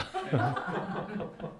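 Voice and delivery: soft, real chuckling laugh; laughter. Real, not acted. Pastor after the police anecdote's punchline, soft laughter.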